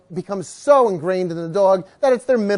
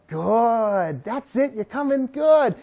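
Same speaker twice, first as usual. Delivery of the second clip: coaxing praise; slower than usual. Shown as a demonstration. Coaxing a dog back.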